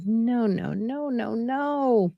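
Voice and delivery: soft, rising sing-song no no no; a gentle imitation of someone refusing; mock refusal. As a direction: lightly act out a resisting patient.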